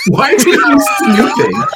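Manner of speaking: suspicious high voice. Pretend. Voicing character suspicious.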